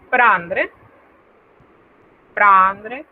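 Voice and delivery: "prendre" slowly, with a nasal first vowel. Shown as a demonstration. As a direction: let the "en" of "prendre" resonate through the nose. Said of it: "ese sonido que es nasal". ("prendre" despacio, con la vocal nasal)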